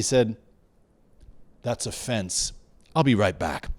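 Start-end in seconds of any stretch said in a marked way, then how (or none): 1.6-3.7 low, matter-of-fact imitation of a self-satisfied father; satisfied dad. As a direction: state it low and unbothered, pleased with yourself. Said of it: "with a very satisfied look on his face".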